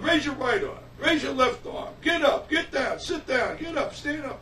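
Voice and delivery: imitating an eager amateur hypnotist; mock hypnotist commands. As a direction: bark out orders in a mock hypnotist act. Acting out a hypnotist's rapid commands.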